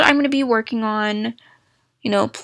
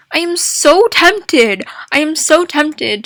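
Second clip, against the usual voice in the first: excited; 5 semitones higher, 3 dB louder than usual. Real, not acted. Longing over wanted game.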